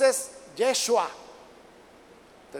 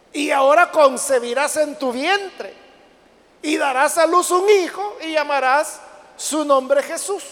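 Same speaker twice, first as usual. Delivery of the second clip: slow, louder preacher's reading; scripture proclamation; 4 semitones higher, 5 dB louder than usual. Acted. Angel announcing a son to Mary, proclaimed slowly. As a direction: proclaim the verse word by word. Reads the verse out forcefully.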